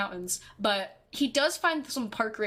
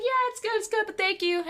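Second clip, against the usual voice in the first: forced polite reassurance; 10 semitones higher than usual. Retold or imitated. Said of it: "I was like".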